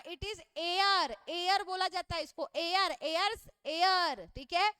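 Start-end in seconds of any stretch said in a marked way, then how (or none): 0.0-1.2 "air" said slowly and carefully as air, with no h sound at the start; pronounce air correctly. Shown as a demonstration. Teacher to students, showing the right sound: slow careful "air". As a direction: stretch out "air", clean vowel, no h. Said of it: "इसका pronunciation हेयर मत कर देना".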